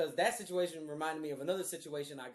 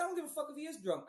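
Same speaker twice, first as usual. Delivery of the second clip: retold angry outburst; 11 semitones higher, faster than usual. Snapping at the cousin.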